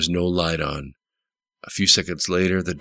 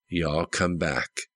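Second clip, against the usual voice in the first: "Y'all come back" repeated slowly and softer, turned over in thought; slow, quieter "Y'all come back", as if savouring it; musing echo; 4 dB quieter, slower than usual. Retold or imitated. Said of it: "reasoned Jones".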